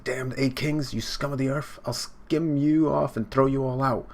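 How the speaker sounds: theatrical demon outrage; acted angry threat.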